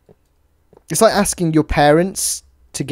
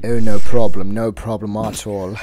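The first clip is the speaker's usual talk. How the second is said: a lightly voiced Musk thanking the host; Elon Musk voice; 5 semitones lower, 6 dB louder than usual. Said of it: "It's really hard doing Musk's voice".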